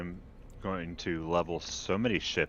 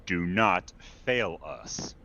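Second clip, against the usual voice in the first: lightly voiced grand imperial announcer; imperial herald proclamation; 2 semitones higher than usual. Reads the news as imperial herald.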